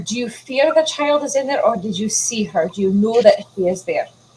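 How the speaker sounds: hushed half-whisper throughout. Answering an ally in character about the child: half-whisper. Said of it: "I whisper".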